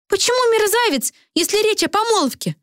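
outraged on her behalf; indignant Karolina. A narrator's reading. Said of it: "возмутилась Каролина".

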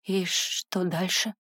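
slow, soft words through chattering teeth. Acted. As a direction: ask while shivering, teeth chattering. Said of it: "всё ещё стуча зубами".

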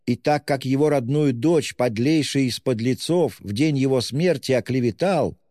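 high, breathless pleading lady; agitated gentlewoman. A narrator's reading. Distraught widow pleading with the official, proud and frantic. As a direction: press the official hard, half proud, half desperate.

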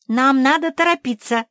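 high, loud angry urging; cross, impatient. A narrator's reading. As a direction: urge them on crossly. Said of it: "рассердилась Куки". (сердито, нетерпеливо)

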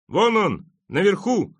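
very high, loud pointing-out call; shout. A narrator's reading. Someone in the crowd gives away the culprit, high shout. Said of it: "крикнул кто-то из толпы".

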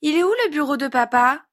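put-on high little-boy question; high-pitched childish curiosity; small child asking. A narrator's reading. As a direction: ask like a curious small kid. Child asks about father's office.

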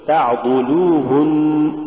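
slow تعضلوهن with a thin, light lam; correct light lam. Shown as a demonstration. Teacher models the correct word, light lam in تعضلوهن. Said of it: "قل".

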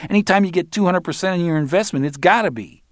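high-pitched cocky punk; cocky Barry. Acted. Barry talks down to Roland, high cocky voice. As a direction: lecture him like a know-it-all.

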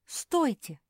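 loud, high call to stop; shout. Acted. Mafi shouts after the frog to stop. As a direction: yell after the leaving frog. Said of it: "закричала Мафи".

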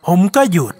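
ordinary delivery, nothing marked

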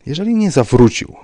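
stubborn insistence. A narrator's reading. Rybka pressing the commissioner, stubborn insistence. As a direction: keep pushing, refusing to let go. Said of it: "nalegał uparcie pan Rybka".

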